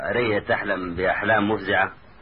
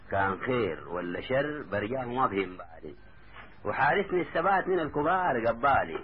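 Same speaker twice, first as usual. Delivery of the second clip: verse recitation; 2 semitones higher than usual. A narrator's reading. Taha tells his cousin he is fine, recited. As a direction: recite line by line, rising then falling.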